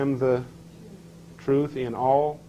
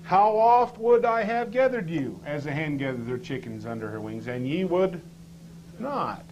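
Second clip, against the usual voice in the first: raised, imploring reading of the verse; pleading scripture read; 3 semitones higher than usual. Shown as a demonstration. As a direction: plead it like a longing call. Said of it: "He repeats himself".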